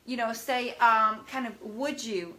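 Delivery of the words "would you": polite gentle request; polite ask. Shown as a demonstration. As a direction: ask the child kindly. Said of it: "you know, polite".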